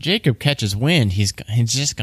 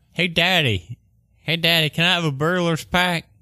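put-on kid voice, much higher, slower; 7 semitones higher than usual. Role-playing a small child asking daddy in a game scene, little kid voice. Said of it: "I'm a little kid".

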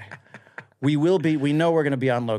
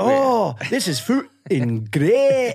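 fake Scottish accent, higher and louder; 9 semitones higher, 5 dB louder than usual. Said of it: "your Scottish accent is better than mine".

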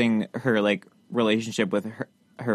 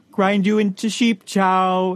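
high, pitched-up, funny character voice; 8 semitones higher, 4 dB louder than usual. Reading a book aloud the way the audiobook does: Polyphemus character voice. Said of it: "I'm gonna read this how it sounds in the audiobook because the Polythemus voice is very funny".

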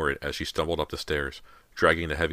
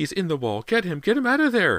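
very high, loud, swooping, rising frantic shriek; 14 semitones higher, 6 dB louder than usual. Mrs. Fraser, tugging her hair while her husband bleeds, shrieking. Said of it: "Mrs. Fraser shrieked".

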